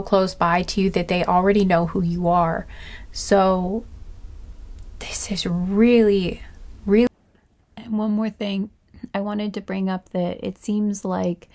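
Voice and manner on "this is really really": hushed whisper. Real, not acted. Awed pause before new section.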